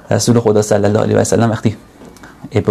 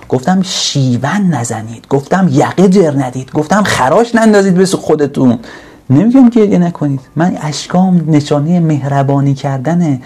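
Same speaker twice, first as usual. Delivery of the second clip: rising preaching; 3 semitones higher than usual. Acted. Prophet's reply, rising preaching.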